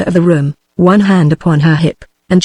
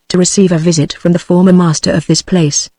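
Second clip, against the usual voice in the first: reserved, leaning on "former"; pointed stress on "former" in a reserved tone. A narrator's reading. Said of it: "He emphasized this word "former".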